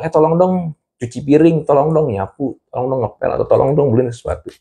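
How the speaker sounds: a hint of a mother listing chores; mom asking. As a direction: mom listing chores for her kid, lightly voiced. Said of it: "minta tolong".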